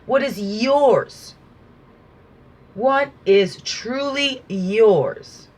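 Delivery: slow, drawn-out soothing affirmation. Acted. Speaker affirming listeners, slow and soothing. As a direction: linger on each word like a blessing.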